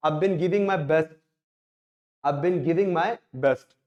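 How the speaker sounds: I've been giving said short and linked; contracted I've been. Shown as a demonstration. Teacher modelling native contraction, I've been linked. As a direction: run I've been together as one. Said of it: "यहां से sentence बनेगा".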